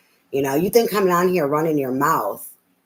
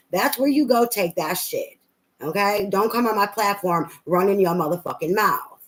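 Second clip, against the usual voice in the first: real rising anger, pitched higher; heated real rant at a rude commenter, pitched higher; heated scolding; 4 semitones higher than usual. Real, not acted. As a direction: tell the troll off, voice climbing up.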